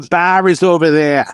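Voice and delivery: quick put-on Boston accent. Shown as a demonstration. DJ pointing guests to the bar, Boston accent. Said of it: "I love Boston accents".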